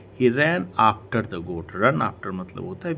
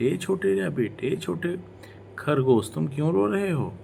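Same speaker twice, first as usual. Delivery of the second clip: high squirrel voice asking the crying rabbit; 8 semitones higher than usual. Acted. Squirrel asks the little rabbit why it cries, voiced high. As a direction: play a small squirrel, pitched well up.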